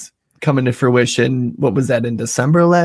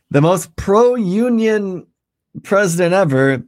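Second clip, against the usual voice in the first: slow, drawn-out mock praise; sarcastic; 6 semitones higher than usual. Real, not acted. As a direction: stretch it out with irony. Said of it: "in quotations".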